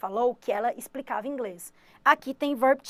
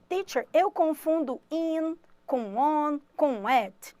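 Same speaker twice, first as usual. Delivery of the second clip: slow, slightly higher student voice; confused student; 3 semitones higher, slower than usual. Pretend. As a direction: play a puzzled pupil asking for help.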